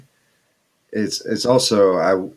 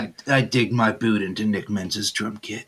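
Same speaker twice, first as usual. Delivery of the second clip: acted admission. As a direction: play the same person casually owning up. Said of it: "Chappelle Show level of".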